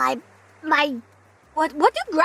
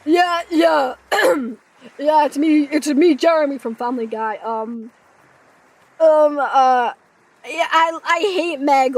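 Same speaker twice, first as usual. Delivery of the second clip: a hint of a lower lad's voice; Jeremy voice; 3 semitones lower than usual. Streamer plays along as Jeremy, lightly lower. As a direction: drop low and casual. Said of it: "the streamer has the voice of Jeremy".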